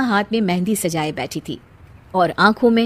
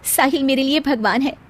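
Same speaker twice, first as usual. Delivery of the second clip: higher-pitched bride confiding in her doll; resigned young bride; 5 semitones higher than usual. Acted.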